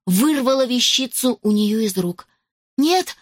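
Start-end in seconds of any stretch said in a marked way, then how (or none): 2.8-3.2 high, sudden cry of horror; horrified cry. A narrator's reading. Girl cries out as the villainess snatches the watch in horror. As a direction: gasp the word out in horror. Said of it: "в ужасе воскликнула девушка".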